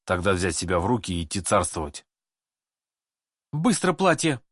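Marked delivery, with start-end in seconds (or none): 3.5-4.4 high, commanding metallic bark; stern metallic shout. A narrator's reading. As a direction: order it like a threatening empress. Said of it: "грозным металлическим голосом прокричала".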